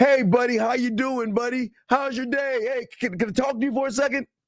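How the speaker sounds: kiosk salesman patter, pitched high, hailing style. Imitating a salesman at a mall kiosk stopping passersby: imitating a mall kiosk salesman. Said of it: "that guy in the middle of the kiosk saying".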